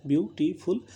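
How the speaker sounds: "ब्यूटीफुल" lightly separated as ब्यू, टी, फुल; split into syllables. Shown as a demonstration. Teacher giving a three-syllable example, "ब्यूटीफुल" split into its beats. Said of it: "जैसे आपका three or more syllables है".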